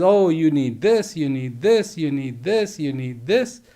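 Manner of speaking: mocking the world. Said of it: "the world says".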